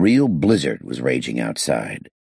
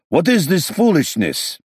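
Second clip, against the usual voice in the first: loud, much higher bellow; 13 semitones higher, 4 dB louder than usual. A narrator's reading. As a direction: bellow to stop the fight. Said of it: "he bellowed loudly".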